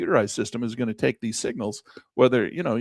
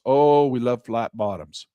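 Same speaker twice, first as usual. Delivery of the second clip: savoring delight; 2 semitones lower, 3 dB louder, slower than usual. Acted. Savoring ideal candles.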